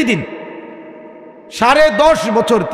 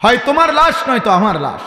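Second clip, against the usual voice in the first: raised lament; 5 semitones higher than usual. Retold or imitated. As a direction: cry it out to the listeners as a warning. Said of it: "চোখের পানি ফেলে বলছে". (উঁচু সুরে টেনে বলা আক্ষেপ)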